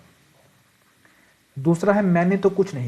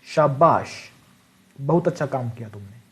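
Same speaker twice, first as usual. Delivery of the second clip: praise; 3 semitones lower than usual. Shown as a demonstration. Teacher demonstrating praise for good work. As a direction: praise a student gently. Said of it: "विस्मय बोधक अव्यय हुआ".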